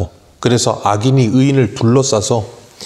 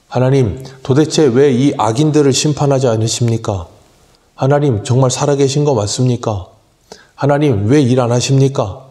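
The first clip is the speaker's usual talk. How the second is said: frustrated complaint to God; 3 semitones higher than usual. Retold or imitated. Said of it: "막 하소연하면서 막 화가 나는".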